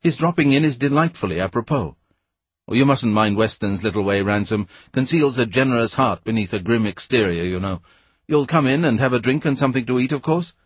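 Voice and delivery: a hint of a mocking toff; lightly voiced Devine. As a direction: play the smug, chummy schoolmate.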